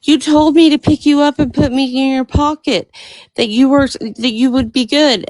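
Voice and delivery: storyteller's hint of a betrayed little girl; protesting little girl. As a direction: protest like a girl who was tricked. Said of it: "and she says".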